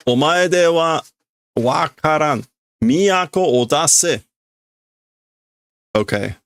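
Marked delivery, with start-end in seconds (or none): 0.1-4.2 acted demand. Voicing a demanding intruder.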